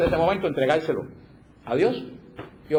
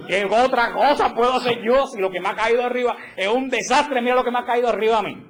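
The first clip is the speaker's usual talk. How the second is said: a hammed-up lament about one's bad luck; mock complaining martyr; 6 semitones higher than usual. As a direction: moan it like someone showing off their misfortune. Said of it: "Como diciendo".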